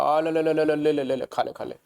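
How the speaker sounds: calling a street dog to a biscuit, chirpy; sing-song ले, ले, ले to lure a dog; coaxing a dog. Retold or imitated. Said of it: "biscuit दे कैसे बोलते हैं".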